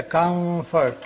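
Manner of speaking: "comfort" with a drawn-out m melting into f; hidden M before F. Shown as a demonstration. Teacher citing British English, "comfort" with m hidden before f. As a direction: hold the m of "comfort" in the f position. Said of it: "when M comes before F".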